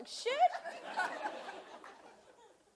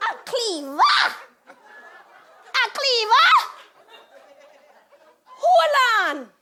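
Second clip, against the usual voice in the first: incredulous shout, building higher and louder; mother's mounting outrage; 7 semitones higher, 11 dB louder, slower than usual. Retold or imitated. Mother hearing her daughter was threatened, outraged shouting. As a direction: repeat it in rising outrage, then command.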